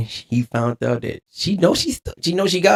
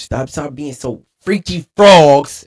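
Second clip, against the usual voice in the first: lightly imitating Reese's catchphrase; quoting Reese; 3 semitones higher, 7 dB louder, slower than usual. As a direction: say it like Reese, slow and loud. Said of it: "as Reese would say".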